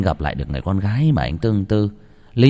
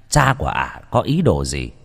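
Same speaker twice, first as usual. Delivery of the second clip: ordinary delivery, nothing marked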